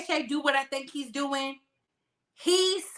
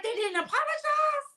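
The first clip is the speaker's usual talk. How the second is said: much higher, stunned question; incredulous question; 12 semitones higher, 5 dB quieter than usual. Retold or imitated. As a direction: ask it like you just got scandalous news. Quoting her own shocked reaction.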